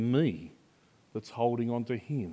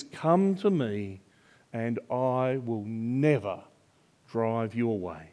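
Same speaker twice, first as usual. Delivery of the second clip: gentle promise; 2 semitones lower, slower than usual. Pretend. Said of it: "What he says is".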